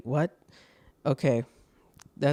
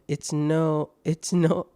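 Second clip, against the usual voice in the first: put-on slipping into a light British accent; a hint of British; slower than usual. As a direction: say it like a Brit, briefly. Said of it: "I went British there".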